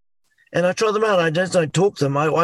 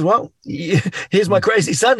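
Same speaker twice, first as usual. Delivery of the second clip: dad's voice; slower than usual. Retold or imitated. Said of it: "My dad just steps aside and goes".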